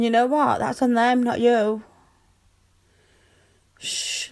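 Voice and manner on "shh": soft unvoiced hush; whispered shush. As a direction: hush them before they go on. Hushing a partner who blames himself.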